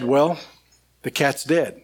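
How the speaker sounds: blunt, matter-of-fact delivery of bad news; just drop the news flatly, no softening; abrupt. Husband blurting out bad news to his wife by phone, blunt. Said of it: "You shouldn't be so abrupt".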